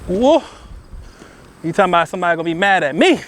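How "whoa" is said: excited whoop. Real, not acted. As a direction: cheer at the fall. Tree falls, cheering.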